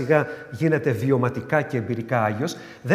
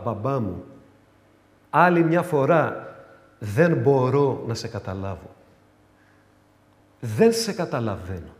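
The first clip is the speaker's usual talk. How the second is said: lowered, confiding prayer; tender prayer; 2 semitones lower than usual. Retold or imitated. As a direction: speak to God like a child to a father. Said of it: "θα του πω".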